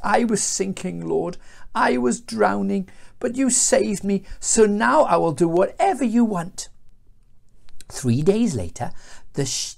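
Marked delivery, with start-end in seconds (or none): 0.0-6.7 earnest, slightly raised voice; acted prayer of a rescued man; storybook prayer. A narrator's reading. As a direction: plead sincerely to God. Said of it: "and prayed a prayer".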